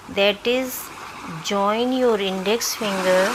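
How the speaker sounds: measured meditation voice with long pauses; guided meditation. Acted. Doctor leading listeners through self-healing meditation, measured guiding voice. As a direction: guide them in short, spaced-out phrases.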